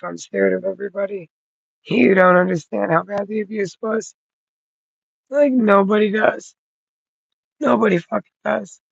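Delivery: strained, close to crying; near tears. Real, not acted. Telling the viewer about past abuse, holding back tears. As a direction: hold back tears as you speak.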